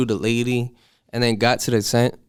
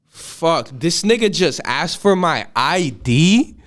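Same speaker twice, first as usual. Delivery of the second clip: higher, slow, stunned "you want my ID?"; retold disbelief; 4 semitones higher, slower than usual. At the ID check, pitched-up retold disbelief. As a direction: replay the moment you couldn't believe it.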